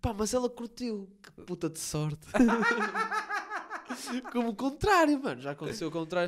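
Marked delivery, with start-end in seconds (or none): 2.3-4.3 a sudden high cackle of disbelief; high burst of laughter. Real, not acted. Laughing at his own luck.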